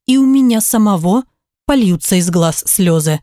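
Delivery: ordinary delivery, nothing marked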